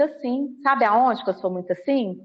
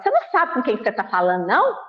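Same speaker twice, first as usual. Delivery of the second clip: indignant retort; much faster than usual. Retold or imitated. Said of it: "eu senti vontade de falar".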